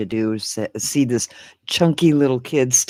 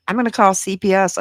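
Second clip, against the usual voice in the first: raised-pitch imitation of a kid threatening; lightly voiced child, higher than own voice; quoted son's threat; 8 semitones higher, 4 dB louder, faster than usual. Son threatens to report his mother, mock indignant. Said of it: "Jimmy said".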